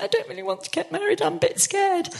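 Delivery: high, mock-tearful voice; retold tearful plea. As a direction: imitate yourself bursting into tears, half-joking. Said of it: "And I burst into tears and went".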